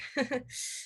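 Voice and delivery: short, quiet laugh; nervous laugh. Acted. Roommate explains the flag to visitor, nervous laugh. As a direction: laugh it off lightly.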